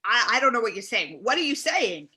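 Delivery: exasperated. Acted. Host baffled by caller.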